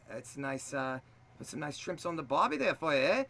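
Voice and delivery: tentative Australian accent; hesitant amateur Australian impression. Shown as a demonstration. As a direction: attempt Deadpool's mock-Aussie accent. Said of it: "When I try to do an Australian".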